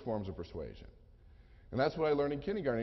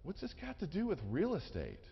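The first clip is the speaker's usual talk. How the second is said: softer, a touch higher, confused customer; lightly voiced puzzled caller; 3 semitones higher, 5 dB quieter than usual. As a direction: ask it like a puzzled man on the phone. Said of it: "he says".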